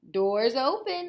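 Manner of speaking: high, loud put-on granny voice; wolf faking Granny. Wolf in disguise inviting Little Red in, high. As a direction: play the granny to lure her.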